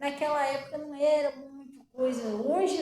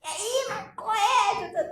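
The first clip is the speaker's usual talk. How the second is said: high, slow, drawn-out slang greeting, half laughing; imitating her old slangy self; mock street-slang "E aí, mas qual é?"; slangy street talk; 7 semitones higher, much slower than usual. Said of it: "Cheia de gíria".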